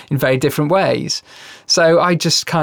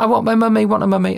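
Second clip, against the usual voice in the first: put-on higher little girl's plea; whiny child; 7 semitones higher, faster than usual. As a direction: beg for mummy like a toddler. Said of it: "she was like".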